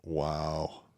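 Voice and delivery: stunned whisper; whispered wow. Real, not acted. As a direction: breathe it out in shock. Hearing shocking details.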